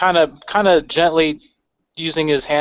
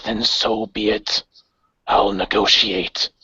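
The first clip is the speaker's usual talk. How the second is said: measured, cold villain voice; lightly voiced commander threatening politely; understated menace from a ghostly leader; calm menacing leader; 3 semitones lower than usual. GM voices Geist again.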